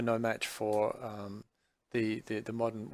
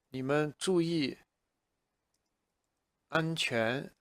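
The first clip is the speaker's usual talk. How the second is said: mild parental warning; lightly voiced parent; 3 semitones higher than usual. Shown as a demonstration. A parent lightly warns the kids to be careful. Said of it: "parents to kids".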